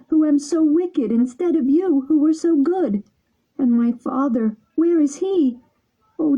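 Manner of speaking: high, pleading puppet voice, near tears; weeping Pinocchio. A narrator's reading. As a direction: plead through tears as the wooden boy. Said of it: "As he wept".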